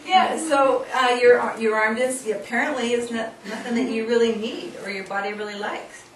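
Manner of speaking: laughing. Real, not acted. Laughing at volunteer's answer.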